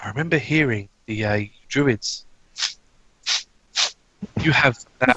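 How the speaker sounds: very quiet, soft, hushed voice. Voicing a man who approaches a druid, purposely saying this really quietly. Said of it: "purposely saying this really quietly".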